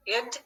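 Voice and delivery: "id" said as a short unstressed ih-d syllable. Shown as a demonstration. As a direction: sound out "id" as ih-d, like the end of wanted. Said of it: "Makes three sounds".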